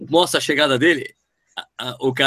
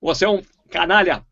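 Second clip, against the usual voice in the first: dubbed villain; 2 semitones higher than usual. Pretend. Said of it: "o Jaspion".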